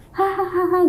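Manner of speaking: mock ghostly cackle, lightly done; kuntilanak laugh. Ghost laughing behind her in the dream, mock eerie cackle. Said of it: "ketawa kunti gimana sih gitu".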